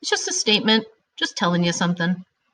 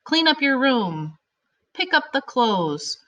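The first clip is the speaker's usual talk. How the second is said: command; 6 semitones higher, slower than usual. Shown as a demonstration. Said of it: "it tells you to do it".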